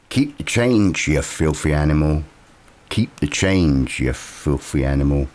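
lightly voiced film character, slowing right down; film villain impression. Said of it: "that's my impression".

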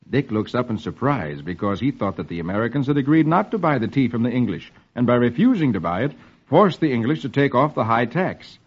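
measured comic-strip reading; old-time radio storyteller; story narration. A narrator's reading. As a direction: read the story out to a child.

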